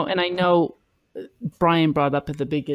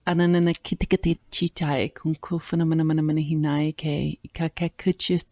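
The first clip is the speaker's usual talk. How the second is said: flowing, chant-like stream of made-up syllables; light language; 2 semitones higher than usual. Real, not acted. Co-host answers the request with light language. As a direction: let the syllables pour out in a rolling rhythm. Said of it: "a light language conversation".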